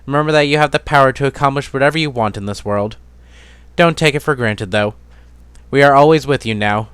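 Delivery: a loving dad saying goodbye on paper; father's letter. Acted. Father's farewell letter read aloud.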